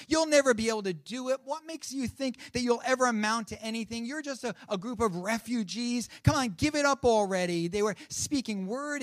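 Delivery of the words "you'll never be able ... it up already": mildly mocking, slightly raised jeer; sarcastic taunting. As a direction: taunt them like a scornful enemy, lightly acted. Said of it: "the sarcasm and the taunting in their voice".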